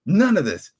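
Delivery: firm, loud dismissal; emphatic. Real, not acted. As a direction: slam the words down. Ranting repeats his complaint.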